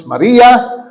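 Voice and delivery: calling her name. Acted. Jesus calls Mary by name, calling out. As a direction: call out her name with recognition. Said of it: "Sabi ni Jesus".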